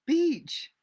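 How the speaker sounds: a raving man yelling through the wall, very high and loud; yelled word. Acted. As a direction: howl the word like a madman. Drunk man rants the word.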